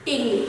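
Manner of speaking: টেংরি with a closed, tight e sound; closed e model. Shown as a demonstration. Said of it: "সংবৃত".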